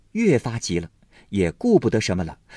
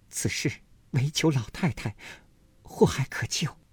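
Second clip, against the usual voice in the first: inner thought; 5 semitones higher, 5 dB quieter than usual. A narrator's reading. Daiyu thinking to herself.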